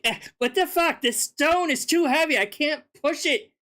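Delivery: a lightly voiced Jesus straining at the stone; mock Jesus groaning that the stone won't budge; whiny trapped Jesus. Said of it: "He's like".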